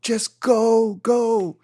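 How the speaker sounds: urging him out with a hint of glee; imitating Jose Angel. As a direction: surfer friend urging him to paddle out, mildly voiced. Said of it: "And he goes".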